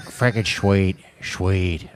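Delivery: slow, halting cartoon dad attempt; unsure impression, low and drawn out; Peter Griffin. Shown as a demonstration. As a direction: drag out a slurred "shweet", softly. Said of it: "I don't know if I can do Peter Griffin".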